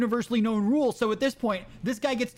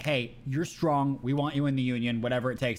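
a smooth recruiter luring him in, lower; 6 semitones lower than usual. Retold or imitated. Voicing union recruiter.

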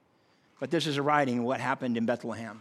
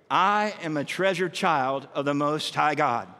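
slow unison recital; slower than usual. Shown as a demonstration. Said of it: "Can you say that with me?".

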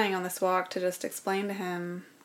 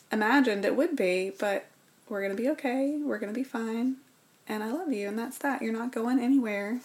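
higher, firm and tender promise; sincere reassurance; 4 semitones higher than usual. Retold or imitated. Husband on the sidewalk reassuring his wife, raised and earnest. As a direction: insist on love, voice lifted and earnest. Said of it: "And he said".

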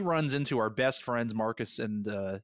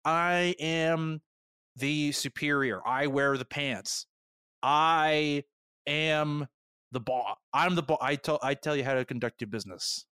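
mock angry boss; 3 semitones higher than usual. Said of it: "she said".

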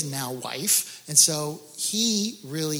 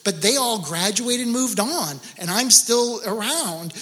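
building preach; 3 semitones higher, 4 dB louder than usual. Acted. Preacher builds his own logic.

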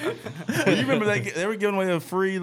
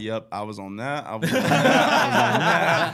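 laughing confession; 4 dB louder, slower than usual. Retold or imitated. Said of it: "I'm like".

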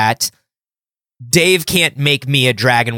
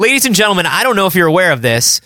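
nineties stand-up comic; 10 semitones higher than usual. Retold or imitated. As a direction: ham up a cheesy club comedian. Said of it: "said a nineties stand-up".

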